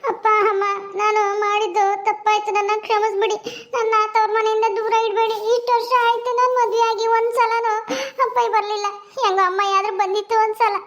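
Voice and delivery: a daughter begging her parents through tears; tearful pleading. Acted. Daughter begs parents' forgiveness. (ಅಳುತ್ತಾ ಕ್ಷಮೆ ಕೇಳುವ ಮಗಳು)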